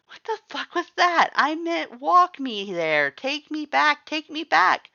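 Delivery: high, loud, frantic yelling; panicked shout. Acted. Reader yelling at Axe to be taken back, panicked shout.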